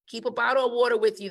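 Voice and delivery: fast, pressing reminder; quick emphatic repeat. Shown as a demonstration. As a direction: rattle it off again to drive it home. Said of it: "I would tell my staff time and time again".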